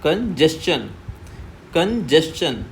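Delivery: कंजेशन with stress on the middle जे; teacher stresses जे in कंजेशन; stressed model. Shown as a demonstration. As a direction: hit the जे in कंजेशन. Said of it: "थोड़ा loud पढ़ना है".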